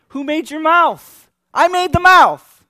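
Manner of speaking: high, slow, thundering shout; exasperated God. Acted. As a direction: shout each word at a stubborn servant. God losing patience with Moses.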